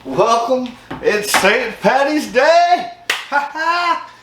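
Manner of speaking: high, drawn-out mock Irish cheer; hammed-up Irish lad greeting everyone. Host welcoming viewers on Saint Patty's Day, mock Irish.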